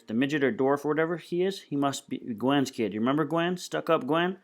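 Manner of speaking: a hint of an excited gossip; lightly voiced Loretta, realizing. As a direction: piece it together, prodding his memory. Voices woman working out a memory.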